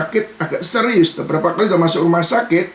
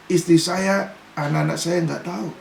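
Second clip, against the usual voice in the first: quiet fearful confession; 3 semitones lower, 6 dB quieter than usual. Retold or imitated. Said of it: "Saya takut".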